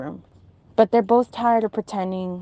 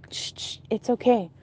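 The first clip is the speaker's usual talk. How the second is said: retold gentle shushing; mild calming shush; soothing hush; 3 dB quieter than usual. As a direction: hush someone reassuringly, lightly acted. Aunt hushes the questioner.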